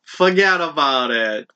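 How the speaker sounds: badly faked, slow New York accent. Cohost asked for New York cheese names, hammy New York accent. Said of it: "a New York accent".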